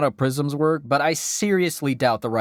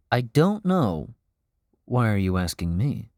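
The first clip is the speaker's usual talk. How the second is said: pompous expert; 3 semitones lower than usual. Acted. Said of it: "as an expert on all things Plague Tale".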